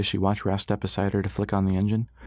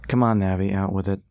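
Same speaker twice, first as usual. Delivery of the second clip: playful with an edge. Acted. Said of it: "meant to sound playful, but his words had more of an edge".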